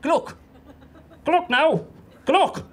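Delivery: high-pitched "Gluck", squashed into one syllable; "Gluck", good luck run together as G-LUCK; Irish goodbye. Shown as a demonstration. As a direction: chirp "Gluck" as a quick Irish farewell. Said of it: "That's how it's pronounced".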